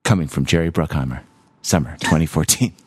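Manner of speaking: low trailer narrator announcement; movie trailer voice. Acted. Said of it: "trailer guy voice".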